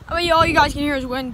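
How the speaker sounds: breathless and hurried; talking while winded from sprinting; after a workout. Real, not acted. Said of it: "let me catch my breath".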